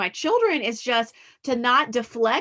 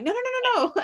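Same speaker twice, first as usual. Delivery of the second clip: mock dismissive; 14 semitones higher than usual. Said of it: "And I'm like".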